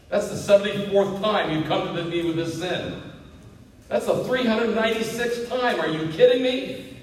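incredulous, pitch climbing as it goes; mock exasperation. Preacher voicing a spouse fed up with repeated sin, mock exasperated. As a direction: build to a high, disbelieving complaint.

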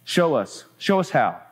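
simple, matter-of-fact request; understated prayer in an everyday tone. Acted. Betsy prays as if chatting, matter-of-fact. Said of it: "It was said so matter-of-factly".

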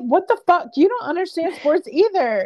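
high, incredulous what the fuck; exasperated mock quote. The speaker mocking JT, exasperated.

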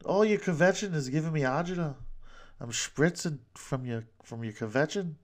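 mock-exasperated New York kvetching; New York accent. Host demonstrating Yiddish slang, mock New York kvetching. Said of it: "I'm doing the New York accent".

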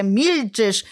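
normal talking voice

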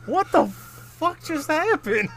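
high, slow, laughing what-the-hell; laughing disbelief. Retold or imitated. Describing the ending to friends, slow laughing disbelief. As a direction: stretch it out, cracking up in disbelief. Retelling absurd movie ending.

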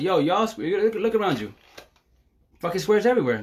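hyped call-out. Retold or imitated. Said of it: "I tell them at the market".

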